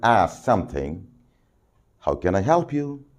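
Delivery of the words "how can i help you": gentle helpful question; polite offer of help; soft and polite. Shown as a demonstration. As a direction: ask it softly, like a kind clerk. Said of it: "Very soft, very polite".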